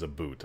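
"a boot" said with an oo vowel for "about"; "a boot", rhyming with "suit"; mock Canadian pronunciation. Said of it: "a Canadian that says".

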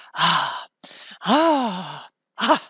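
loud rapturous ahs of a duke tasting; loud gourmet moans of delight. A narrator's reading. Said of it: "schlug die Augen auf zur Decke und sprach".

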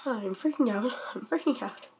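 soft, real panicky repetition; freaking out. Real, not acted. Vlogger trying to calm down after report scare, freaking out softly. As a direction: repeat it under your breath in panic.

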